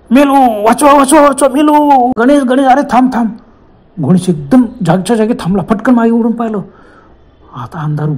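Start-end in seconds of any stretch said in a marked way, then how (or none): 0.1-3.3 terrified screaming. Acted. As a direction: scream for your life, voice cracking high. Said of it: "अचानक वसंताने किंकाळी मारली".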